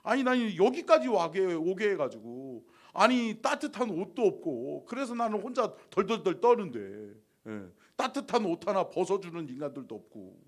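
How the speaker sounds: a touch of a sighing lament to God; lamenting prayer. Retold or imitated. Pastor retelling his tearful complaint to God, mild lament. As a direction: grumble and sigh at God, half hurt. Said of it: "탄식하면서".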